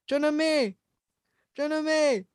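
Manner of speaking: put-on high Bisaya-accented calling of the name. Panicked Bisaya man calling for his girlfriend, Bisaya accent. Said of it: "in a Bisaya accent".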